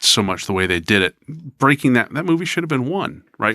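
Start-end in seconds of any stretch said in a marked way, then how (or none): 1.6-3.6 exasperated rant. Real, not acted. Ranting about the Hobbit trilogy.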